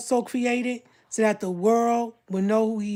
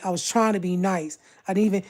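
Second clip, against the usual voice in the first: ordinary talk, nothing marked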